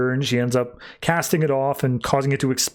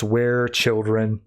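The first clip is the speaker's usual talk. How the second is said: drawn-out halting words; slow, halting speech; 3 semitones lower, much slower than usual. Retold or imitated. Cassandra asking the robot about children, slow and halting. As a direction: get the words out slowly, one by one. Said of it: "slowly stutters out the words".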